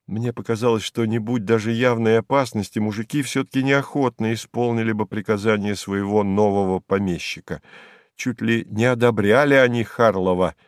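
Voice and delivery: ordinary delivery, nothing marked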